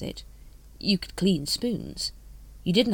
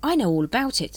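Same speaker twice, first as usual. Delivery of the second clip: higher-pitched note of triumph; mildly triumphant, pitched up; 6 semitones higher, 4 dB louder than usual. A narrator's reading. Carrot telling Vimes he knows about it, triumphant. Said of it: "said Carrot triumphantly".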